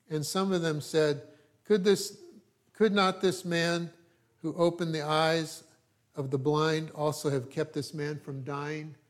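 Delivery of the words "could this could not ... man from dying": mocking tone. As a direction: read it as a scoffing jab from the crowd. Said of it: "that was in a mocking tone".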